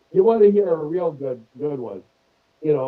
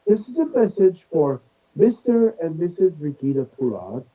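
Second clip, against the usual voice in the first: British accent imitation; 3 semitones higher than usual. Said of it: "with a British accent".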